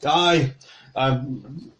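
put-on light Irish accent, half-hearted; a quick touch of Irish brogue. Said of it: "with an Irish accent for no reason".

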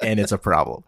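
said through a laugh; chuckling punchline. Real, not acted. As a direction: laugh it out while joking. Debt joke.

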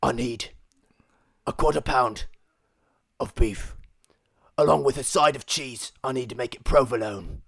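bad gravelly vocal fry take on Jason Statham. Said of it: "Jason S-, Statham".

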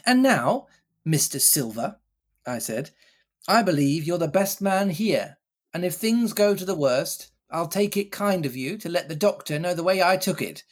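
put-on bold young lad standing firm; defiant boy. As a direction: brave cabin boy facing pirates. Jim defies the pirates.

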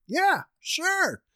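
high, breezy yes; casual guest reply. Retold or imitated. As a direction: toss it off lightly like it's nothing. Bob's casual reply, voiced.

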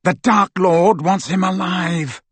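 slow, high, forceful warning; shout. A narrator's reading. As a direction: shout it out word by word. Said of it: "Malfoy shouted at Crabbe".

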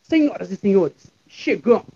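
slow showman host announcement; Marcos Mion impression. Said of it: "Faz o Marcos Mion".

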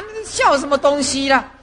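mildly angry mock scolding; annoyed mother. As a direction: act out a mother telling off a giggling child. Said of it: "他妈妈很气啊". (模仿妈妈生气责骂)

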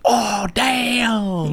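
very high surprised exclamation; mock amazement. Friends react to extra whipped cream, high surprised squeal. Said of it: "I was like".

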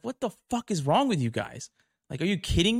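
replaying his disbelief at the bosses; a hint of a retold outburst; mock outraged retort. Retold argument with the managers.

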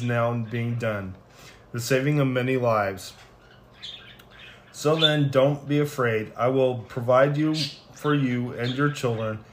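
steady, measured Bible reading; scripture reading. Acted. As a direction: read the passage aloud with care. Reads Genesis scripture aloud.

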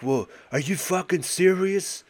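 rough Aussie accent attempt; high startled Australian outburst. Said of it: "what's the Australian accent?".

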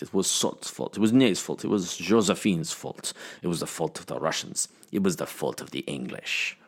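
dubious French accent drifting toward Russian. Shown as a demonstration. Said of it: "saying it in a French accent".

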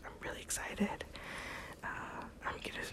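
ordinary talk

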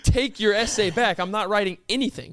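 worked-up, emphatic retold refusal; mock-indignant defiance; defiant refusal. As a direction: push back hard, each point hit.

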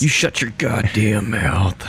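low gruff thug voice; crime voice. Acted. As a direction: growl it like a street thug. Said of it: "It's my crime voice".

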